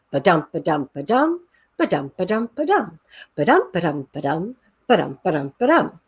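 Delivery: six ba-dums chanted, weight on dum; alexandrine beat. Shown as a demonstration. Teacher demonstrating the Alexandrine couplet, chanted. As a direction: chant the long line's meter. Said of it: "So it goes".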